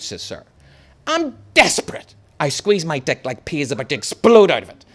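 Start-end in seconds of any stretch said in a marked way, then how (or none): 1.1-2.1 high, pleading fake urgency; mock desperate whine; pretend desperation. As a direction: ham up the need to pee. Boy faking urgency to teacher.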